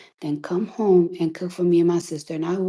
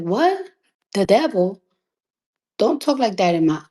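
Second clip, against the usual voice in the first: imitating shocked mom. Mother scolding her daughter about the devil, mock shock. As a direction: play her mother recoiling at the word devil. Mom's shocked retort, retold.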